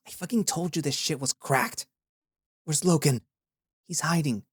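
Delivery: put-on cocky young warrior talking back; gruff young warrior. A narrator's reading. Tarki, the young badger warden, defends her rescue to Aya.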